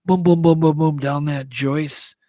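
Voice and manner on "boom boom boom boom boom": mock thumping booms, the first ones louder; retelling loud bangs on the cabin wall; imitated banging. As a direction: punch out each boom like a knock on wood. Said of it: "heard 'em go".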